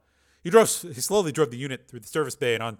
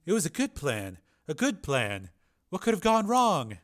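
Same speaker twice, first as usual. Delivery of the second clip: soft lament rising higher at the end; softly bewildered; 5 semitones higher than usual. Acted. Beaten man wonders how his plan failed, softly. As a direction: puzzle aloud over the failure, softly. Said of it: "he said softly".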